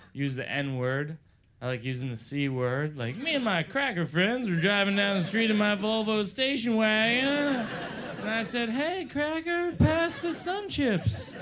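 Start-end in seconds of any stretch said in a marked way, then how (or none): 3.2-7.7 lightly put-on white guy as black comics play him; a hint of a mock white guy impression; layered white guy voice. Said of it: "my white guy doing a black guy doing a white guy voice". 8.7-11.3 high-pitched, slowly stretched white guy caricature; exaggerated, drawn-out white guy impression; mock white guy voice. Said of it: "my white guy doing a black guy doing a white guy voice".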